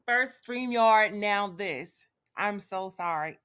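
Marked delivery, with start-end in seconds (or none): 0.1-2.0 louder, slow and fed up; "First StreamYard" drawn out slowly and louder in real exasperation; fed-up gripe. Real, not acted. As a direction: spell out "First StreamYard" slowly and louder, each word weighed. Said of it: "I'm so irritated right now".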